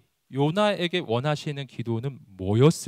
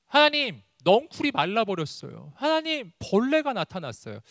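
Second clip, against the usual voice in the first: distressed prayer; 7 semitones higher than usual. Acted. Jonah complains to God about his vine, distressed plea. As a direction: act out a troubled plea to God. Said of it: "내가 너무 힘든다는 거였어요".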